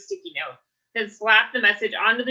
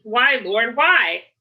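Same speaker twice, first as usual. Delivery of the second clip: hammed-up cry to heaven, louder on the last why; theatrical mock despair; mock anguish; 2 semitones higher, 5 dB louder, much slower than usual. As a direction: playfully wail up at the ceiling. Mock lament to the ceiling.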